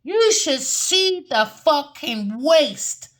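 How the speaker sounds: slow, high-pitched mock yell; retold scream. Retelling how she screamed at the table, slow high yell. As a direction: throw them out, stretched and high. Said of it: "I had to scream at them and say".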